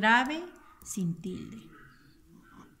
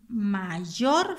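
"mayor" with yor louder and held; stress on last syllable; 6 dB louder than usual. Shown as a demonstration. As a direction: lean hard on the yor of "mayor". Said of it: "lleva en la última sílaba".

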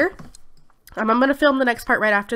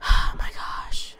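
slow, whispered sigh of dismay; exasperated sigh; much slower than usual. Real, not acted. Exasperated at the game.

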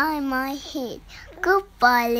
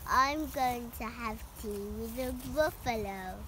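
softer little mouse voice; child reading the mouse's lines softly; quiet mouse; 11 dB quieter than usual. Acted. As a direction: say it timidly, almost to yourself.

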